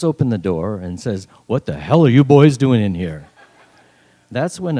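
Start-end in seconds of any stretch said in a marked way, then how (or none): 1.5-3.3 loud, mock-angry teacher; raised-voice scolding, acted. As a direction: demand it like a teacher bursting in. Teacher bursts in on the boys.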